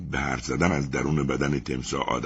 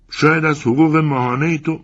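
with fear; 9 semitones higher, 4 dB louder than usual. Acted. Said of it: "با ترس و واهمه گفتم".

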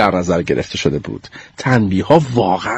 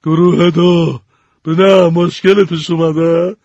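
slow, stern teacher voice; 4 semitones higher, slower than usual. Acted. Mrs. Pierce questions group two, slow and stern. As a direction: narrow your eyes and question them slowly. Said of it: "چشماشو ریز کرد".

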